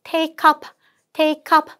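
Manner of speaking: "take up" joined as "tay-kup"; linked pronunciation. Shown as a demonstration. Teacher models linking for students, joined "take up". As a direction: run "take up" together as one word. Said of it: "take up 하실 때 연음 처리".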